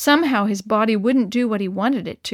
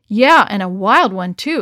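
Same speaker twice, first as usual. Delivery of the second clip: exclamation; 6 dB louder than usual. Acted. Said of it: "exclaimed John".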